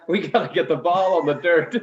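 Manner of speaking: repeating the coach's line through laughter; half-laughing mock coach line; laughing quote. Mimicking the coach to his teammates, through laughter. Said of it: "and he goes".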